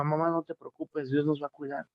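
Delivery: softly retold words of comfort; hushed, gentle reassurance; reassuring. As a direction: comfort mother quietly, as a child would. Child comforting crying mother, retold.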